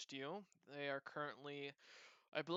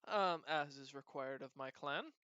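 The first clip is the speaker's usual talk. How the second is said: put-on cat-girl voice; 3 semitones higher than usual. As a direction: tell it eagerly like a chatty cat-girl. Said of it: "she looks at you and says".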